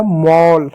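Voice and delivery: मॉल with a held "aw"; teacher's model of मॉल, vowel open; demonstrated open vowel. Shown as a demonstration. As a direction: sound out मॉल as "mawl". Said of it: "ए को औ लिखेंगे".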